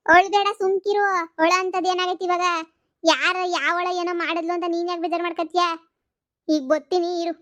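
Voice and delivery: insistent consoling. Acted. Mother on the phone telling daughter not to cry, insistent consoling.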